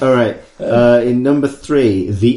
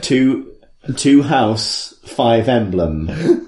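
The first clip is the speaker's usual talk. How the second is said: jokey slow mangled title; deliberately garbled title; much slower than usual. Pretend. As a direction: mangle the title on purpose, slowly. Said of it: "jumbled title as a joke".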